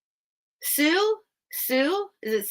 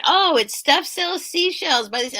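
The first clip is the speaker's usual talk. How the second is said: lightly mocked chorus, higher and louder; imitating other people; 8 semitones higher, 5 dB louder than usual. Host quoting people punning on the shop name, lightly imitating. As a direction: parrot them with a raised, louder voice. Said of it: "people kept saying".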